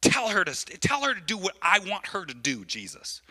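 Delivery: lightly acted bossy mother ordering a child; a hint of scolding a kid; bossy parent. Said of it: "like it's her kid".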